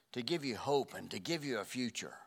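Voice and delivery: whispered scripture; hushed whispered reading. Acted. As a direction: breathe the promise out in a whisper.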